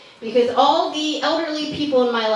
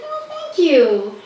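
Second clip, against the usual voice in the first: slow, slightly higher thanks; touched thanks; 4 semitones higher, 3 dB louder, slower than usual. Retold or imitated. Cousin answering great aunt's compliment, touched thanks. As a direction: draw out a lightly imitated grateful reply.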